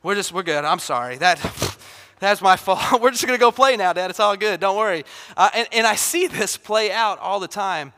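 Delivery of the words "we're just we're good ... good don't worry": quick, laughing "we're good" retreat; nervous giggling cover-up; backpedaling kid. Retold or imitated. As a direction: caught instigator hurrying to drop the matter, laughing. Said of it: "that person ... is like".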